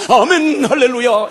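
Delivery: high, loud amen hallelujah; family yelling back amen; shouted amen. Retold or imitated. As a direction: shout the response on cue. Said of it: "이렇게 해야만".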